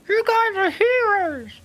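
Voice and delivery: high, slow crowd cheer; hyping the crowd. Acted. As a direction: pump up the crowd from hiding. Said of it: "amp up the crowd".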